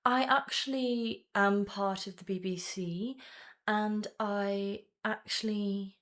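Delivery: British accent, measured and deliberate; attempted British voice, feeling out the sounds. Shown as a demonstration. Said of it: "The thing about the British".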